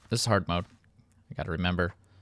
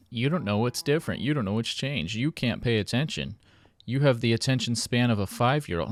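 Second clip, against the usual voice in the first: mock taunting; 4 semitones higher than usual. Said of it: "Dolan was like".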